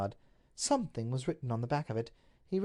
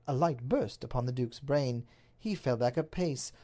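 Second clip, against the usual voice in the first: usual speaking voice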